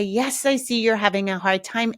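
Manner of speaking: put-on even, accepting acknowledgment of the child's feelings; calm validation. Shown as a demonstration. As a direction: validate calmly and move on. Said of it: "You can say".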